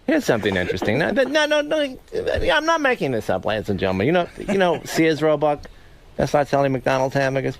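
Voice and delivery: a hint of Leno's host patter; Jay Leno impression. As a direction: do Leno setting up a joke. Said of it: "You do do a good Leno".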